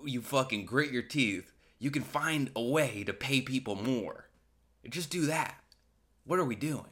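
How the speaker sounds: mild mock pep talk; lightly voiced hustle bro. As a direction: coach the boss like a gym bro. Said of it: "And it's like".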